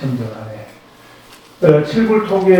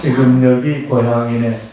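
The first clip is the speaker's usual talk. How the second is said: slow, even line for repeating; leading a recitation; 2 semitones lower than usual. Shown as a demonstration. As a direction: give the group the next line slowly. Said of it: "요거 한번 같이 해볼까요".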